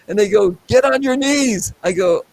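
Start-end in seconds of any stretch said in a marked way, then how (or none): 0.7-1.7 high, slow shouted command; mock police shout. Police ordering him to his knees, a high, slow mock shout. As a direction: drag out the order like a cop yelling it. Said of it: "police were screaming at me".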